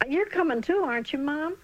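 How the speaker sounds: put-on hopeful boy. Boy asks mother hopefully.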